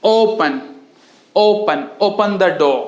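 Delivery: "ओपन" with its first O held long. Shown as a demonstration. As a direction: slowly draw out the O in "ओपन". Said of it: "long sound होता है थोड़ा सा ओ". ("ओपन" में लंबा ओ)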